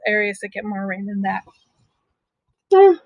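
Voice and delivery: talking through a yawn; words stretched by a yawn. Real, not acted. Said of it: "please forgive me for yawning".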